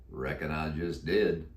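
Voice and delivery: low, slow cowboy drawl; a croaky old Western cowboy; deep croaky voice. Acted. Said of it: "He answered in a deep, croaky voice".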